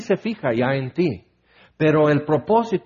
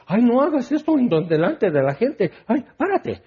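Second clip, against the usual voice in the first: embarrassed God; 6 semitones higher than usual. Retold or imitated. God voiced embarrassed, scolding.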